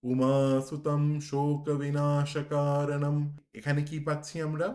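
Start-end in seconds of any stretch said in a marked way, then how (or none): 0.0-3.2 slow, measured Sanskrit chant; slow recitation. Shown as a demonstration. Teacher reciting the verse line to students, slow and measured. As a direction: weigh every syllable as you recite. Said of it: "পরের পংক্তিতে আসলে আমরা পাবো".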